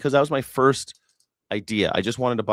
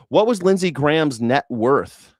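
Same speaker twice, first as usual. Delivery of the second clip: calling the question out again, slowly and louder; louder repeat; 4 semitones higher, 5 dB louder than usual. Real, not acted. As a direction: raise the voice and ask the chat again.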